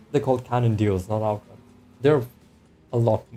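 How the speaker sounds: talking through hiccups; words broken by hiccups. Real, not acted. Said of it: "I have hiccups".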